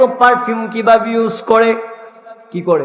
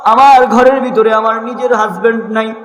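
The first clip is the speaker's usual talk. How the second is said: tearful plea. Acted. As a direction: plead with tears to her father-in-law. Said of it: "দুটা চোখের পানি ছেড়ে দিয়ে বলে".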